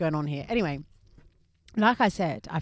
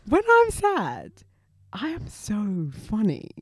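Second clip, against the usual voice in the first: mock sad voice; slower than usual. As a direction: play it as a mock confession. Mock confession, high put-on voice.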